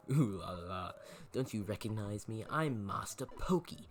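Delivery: lightly put-on British accent for a smug rich kid; toffee-nosed British sneer, only half committed. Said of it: "I gave him a British accent".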